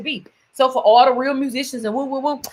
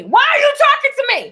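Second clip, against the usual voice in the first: laughing disbelief; 12 semitones higher, 4 dB louder than usual. Real, not acted.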